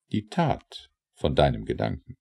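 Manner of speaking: usual speaking voice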